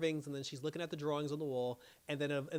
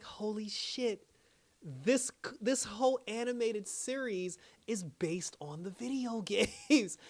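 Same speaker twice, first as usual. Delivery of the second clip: slow, higher-pitched retold amazement; awestruck realisation; 5 semitones higher, slower than usual. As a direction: spell out the revelation, drawn out. Retells realising the series' link.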